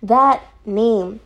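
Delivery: high-pitched, repetitive pleading apology; playful apologizing. Real, not acted. Reviewer apologizing to the creators for botched names, pleading. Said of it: "So I apologize".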